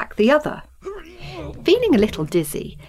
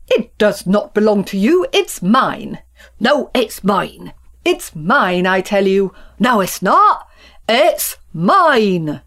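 squabbling; 4 dB louder than usual. Acted. Childish squabble over land.

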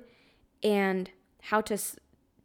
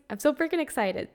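excited; 5 semitones higher than usual. Real, not acted.

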